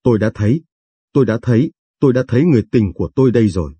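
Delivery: building, then rushing fast at the end; understated excitement speeding up to a rush; mild eureka cry. Acted. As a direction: cry out like a scientist who found it. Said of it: "kêu lên như nhà bác học".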